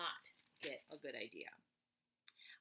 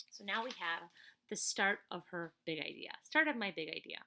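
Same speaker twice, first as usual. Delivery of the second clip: louder and louder, building up the big idea; excited announcement; 10 dB louder than usual. Acted. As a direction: announce it like great news. Excited reading of the big moment.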